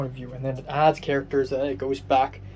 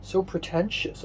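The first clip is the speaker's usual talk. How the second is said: self-mocking, pitched a little higher; mock film snob; 5 semitones higher than usual. Mocking herself for film snobbery, playful self-parody. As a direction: tease yourself as a pretentious snob. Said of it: "I'm being a film snob again".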